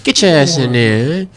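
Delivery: words pushed through gritted teeth. Shown as a demonstration. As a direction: scold her through clenched teeth. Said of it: "talk to her through gritted teeth".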